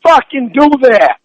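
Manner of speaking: sharp, loud, furious; angry outburst. Real, not acted. Girlfriend snapping at him over the phone, furious. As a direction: cut him off hard.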